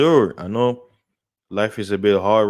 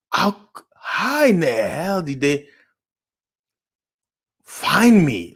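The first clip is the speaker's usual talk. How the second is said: baffled disbelief; 7 semitones higher, slower than usual. Retold or imitated. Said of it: "some of the places I'm like".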